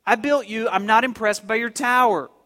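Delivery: firm, unimpressed put-down; mocking God. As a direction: dismiss them with some force. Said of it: "God just kinda mocks them".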